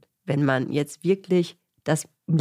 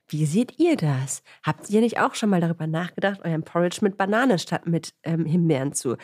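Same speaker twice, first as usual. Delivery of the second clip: LinkedIn call to action. Pretend. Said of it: "ganz am Ende schreibt jemand".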